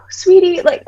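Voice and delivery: put-on high, cooing drunk voice; intoxicated mother. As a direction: imitate a tipsy parent sweet-talking. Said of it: "barely talk, like, she's so intoxicated".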